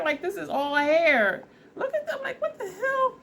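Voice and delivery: high, amused disbelief; excited. Real, not acted. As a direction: squeal over the hairline. Amazed at hair after haircut.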